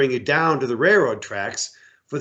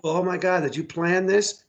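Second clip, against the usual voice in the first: imitating a tourist; 5 semitones higher than usual. Tourist on the train asking the riders, lightly voiced tourist. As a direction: gush like a dazzled sightseer. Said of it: "They thought it was so cool".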